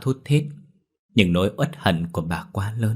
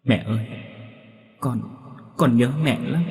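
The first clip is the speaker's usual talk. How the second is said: acted tearful child, slightly raised voice; 4 semitones higher than usual. A narrator's reading. Son in his mother's arms, tearful. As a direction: falter as you tell mother you miss her. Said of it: "một mẹ một con ôm nhau mà khóc nức nở".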